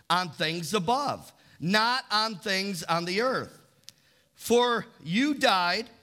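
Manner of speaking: slow, deliberate scripture reading. Acted. Pastor reading Colossians to the congregation, slow and measured. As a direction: read the verse out slowly, phrase by phrase.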